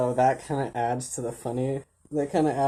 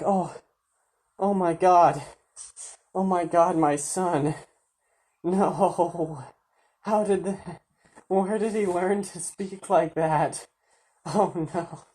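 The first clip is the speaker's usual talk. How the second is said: mock-distraught, higher voice; dismayed dad; 4 semitones higher than usual. Imitating a dad shocked by his son's reply, mock dismay. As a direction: wail it lightly as a stunned father.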